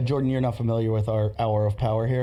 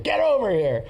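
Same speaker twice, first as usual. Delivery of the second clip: raised, higher-pitched retold command; mock angry order; 6 semitones higher than usual. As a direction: imitate ordering someone back over. Retold yell at screaming girlfriend.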